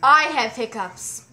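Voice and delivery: firm self-talk; firm, slow and loud. Shown as a demonstration. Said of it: "say firmly to yourself".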